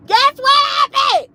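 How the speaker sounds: way up high and slow, stretching each word; drawn-out high teasing question. Shown as a demonstration. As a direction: dangle it like a dare to the audience. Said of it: "I want people in the comments to guess".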